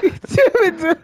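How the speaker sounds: winded from laughing; catching breath after laughing; after laughing hard. Real, not acted. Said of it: "my stomach hurts so bad".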